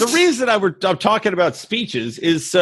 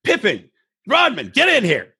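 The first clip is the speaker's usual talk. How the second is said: rising, gushing coach, pitched ever higher; mock Phil Jackson pep talk; 12 semitones higher than usual. Coach Phil Jackson gathering his players, higher and higher mock tenderness. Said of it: "Phil Jackson's like".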